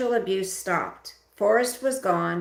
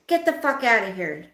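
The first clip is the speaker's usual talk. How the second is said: angry order; 3 semitones higher, 4 dB louder than usual. Acted. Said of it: "Dad ordered".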